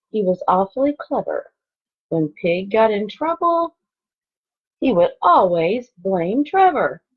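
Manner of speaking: lively storybook read-aloud; expressive picture-book narration; reading to children. Acted. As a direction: read it like story time for second graders. Reads picture book to class.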